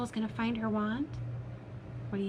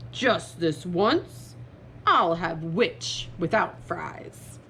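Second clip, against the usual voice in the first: slow, hungry dragon voice; menacing dragon; 4 semitones lower, much slower than usual. Acted. Dragon about to eat the witch, slow menace. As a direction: savor each word like a lightly voiced dragon.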